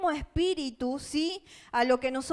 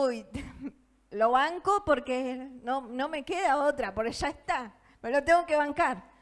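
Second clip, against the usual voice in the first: mock exasperated sigh of putting up with someone; half-hearted complaining; grudging resignation. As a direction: grumble it like you're stuck with them. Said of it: "Yo digo".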